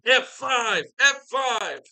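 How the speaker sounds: high, loud move call; wrestling announcer shout. Acted. Recapper calling a wrestling finisher to listeners, excited high shout. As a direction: holler it like a big-match call.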